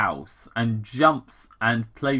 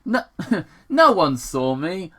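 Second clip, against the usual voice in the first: scoffing; 5 semitones higher than usual. Acted. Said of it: "young Sonic scoffed".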